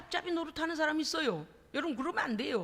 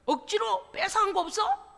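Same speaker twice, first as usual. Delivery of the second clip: accusing interrogation; 2 semitones higher, 4 dB louder than usual. Acted. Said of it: "막 그러면서".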